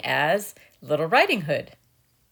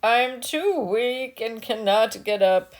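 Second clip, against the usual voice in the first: put-on slower, higher frail old woman; weak grandmother; 4 semitones higher than usual. A narrator's reading. Bedridden grandmother explaining she cannot get up, frail. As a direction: sound too weak to rise.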